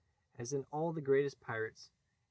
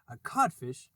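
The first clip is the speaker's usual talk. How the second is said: blank echo; 7 dB louder than usual. Acted. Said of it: "echoed blankly".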